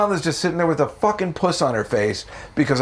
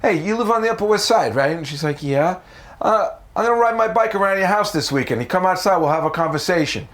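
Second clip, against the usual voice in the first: put-on higher, swaggering New York accent, a touch Rocky Balboa; tough New York accent; 5 semitones higher than usual. Man asking coworker out, cocky New York accent. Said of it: "With the accent? Yeah, with the accent".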